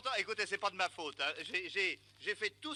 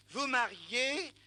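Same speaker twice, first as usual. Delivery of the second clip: slow mock drawl of the driver; much slower than usual. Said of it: "il me dit".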